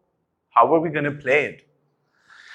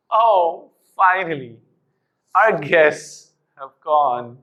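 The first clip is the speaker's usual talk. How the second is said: sad tone; 3 semitones higher, slower than usual. Shown as a demonstration. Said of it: "In a sad tone done".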